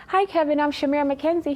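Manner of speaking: high, loud, bright eager hello; eager greeting. Retold or imitated. Tapping the author on the shoulder, eager introduction. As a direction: introduce yourself full of excitement. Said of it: "I'm like".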